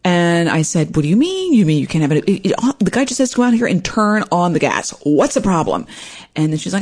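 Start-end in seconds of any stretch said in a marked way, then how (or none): 0.9-5.8 retold exasperated protest; mock indignant phone argument; getting mad. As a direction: start high and incredulous, then push the demand. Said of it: "I started getting more mad".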